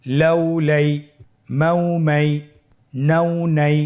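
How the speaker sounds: chanted spelling, clear and firm; loud recitation drill. Shown as a demonstration. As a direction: lead the class aloud, syllable by syllable. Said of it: "উচ্চ আওয়াজে বলুন". (উচ্চ আওয়াজে বানান পাঠ)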